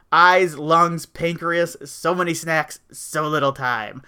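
slow, drawn-out mock monster menace; half-hearted slow Venom voice; Tom Hardy as Venom. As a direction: try to growl it like a hungry symbiote, slowly. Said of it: "I can't do a Tom Hardy as Venom impression".

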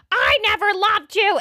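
high, mock-dramatic wail; mock dramatic cry. Retelling a soap scene, mock dramatic wail. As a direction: ham up a betrayed declaration. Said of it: "And she's like".

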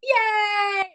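high, shouted cheer; excited cheer. Real, not acted. Co-host cheering FP's arrival, high excited shout. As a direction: cheer like a delighted fan.

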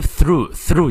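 slow, careful "through" with a dental th; tongue-between-teeth th. Shown as a demonstration. Teacher shows learners the sound, tongue-bitten th in "through". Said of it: "咬舌".

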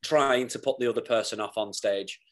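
giggling through the confession; words bubbling with real laughter; laughing while talking. Real, not acted. Telling a podcast host about stage pranks, giggling. Laughs admitting own mischief.

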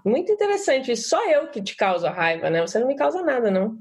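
mock-aggressive, sarcastic retort; sarcastic blame-shifting. Shown as a demonstration. Participant demonstrates a violent reply to an angry complaint, sarcastic. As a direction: turn the accusation back on them. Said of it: "mais agressiva, mais violenta".

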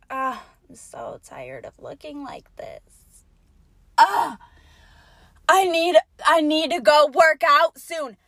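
a whiny fake-modest poster, lightly voiced; mock the fake complaint; mock whiny poser. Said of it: "they say shit like".

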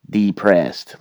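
depressed with the d hit hard, mocking; mocking first-letter stress. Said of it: "emphasize the first letter".

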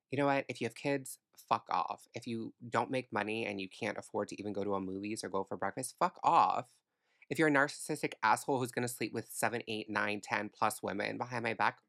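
exasperated, building to a loud blast on the last fuck off; telling every bad date to get lost, in rising fury; fed-up rant. To men who waste her time, a fed-up rant building to a shout.

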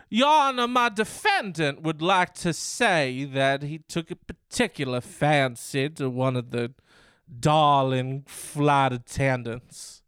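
a hint of a grand courtroom pleader; mock lawyer. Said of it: "he ramps up his accent".

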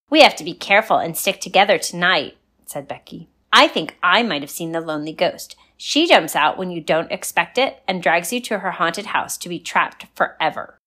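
hushed-urgent campfire tale voice; spooky warning. Acted. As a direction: warn them like a ghost story. Becky warns the girls.

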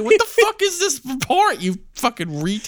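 mock angry boss. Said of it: "He was like".

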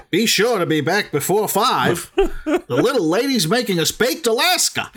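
lightly hammed old-time husband; bouncy, mock-hearty send-up with a laugh; hammed-up stilted dialogue. Parodying the book's stilted dialogue.

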